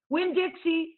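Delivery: high, loud call after the dog; girl calling her running dog. Acted. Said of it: "I called".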